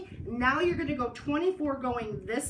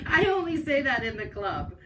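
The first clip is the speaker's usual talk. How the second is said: laughing; 3 dB louder than usual. Real, not acted. Laughs after honey joke.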